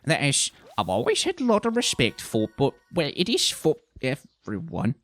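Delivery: halting excuse, trailing off; awkward. A narrator's reading. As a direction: stumble uneasily and let it fade. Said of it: "began Beryl awkwardly".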